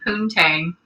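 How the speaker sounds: "poontang" with an n before the t and an "-ayng" ending; mimicked mispronunciation. Co-host explaining what the Southerner's word sounds like, "poontang" as "poon-tayng". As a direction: say "poontang" as the misheard Southern poutine. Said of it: "it's because he's saying".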